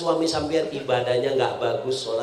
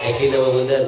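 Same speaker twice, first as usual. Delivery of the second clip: louder; 5 dB louder, faster than usual. Acted. Preacher pressing the congregation, louder. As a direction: repeat the question louder, pressing the crowd.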